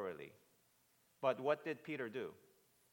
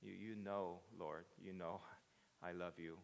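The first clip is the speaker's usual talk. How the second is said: soft, low, humbled confession; subdued, lowered voice of humility; not confident; 5 semitones lower, 7 dB quieter than usual. Acted. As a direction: say it quietly and haltingly, doubting yourself. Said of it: "is not confident anymore in himself".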